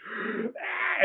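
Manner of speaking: high, airy mock scream; imitated group scream. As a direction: scream in fright without full volume. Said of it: "and we all screamed".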